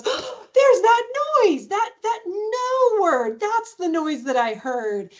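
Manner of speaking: high, drawn-out pretend discovery; hammed-up shock at catching the noise; playful mock amazement. Mom hearing child's no, playfully amazed. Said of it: "she just kept it so playful".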